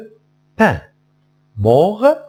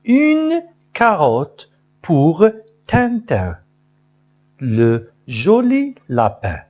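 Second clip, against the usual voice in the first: singsong model line; 4 semitones higher than usual. Shown as a demonstration. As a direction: sing it up high to the class. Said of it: "عاودوا معايا". (نبرة عالية ملحنة للأطفال)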